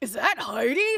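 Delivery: smoother, easy talking voice. Retelling what John said on hearing a recording on the speaker, imitating John Archer. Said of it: "That's how John sounds".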